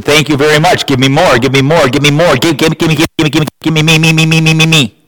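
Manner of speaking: rising chant of give me, me, me; greedy taker. Retold or imitated. People grabbing at God's love, mock greedy whine.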